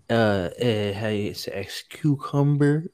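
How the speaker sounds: mock halting Spanish-accented English, feigning a search for the word; fake Spanish accent. Mocking her faked ignorance of English, fake Spanish accent. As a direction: put on a hesitant Spanish accent, drawn out at the end. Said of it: "as far as to fake not knowing English".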